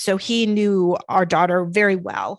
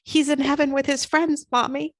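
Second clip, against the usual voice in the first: put-on higher, simple little-boy voice; innocent child; 6 semitones higher than usual. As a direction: say it plainly like a three-year-old. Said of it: "innocently looked at her and said".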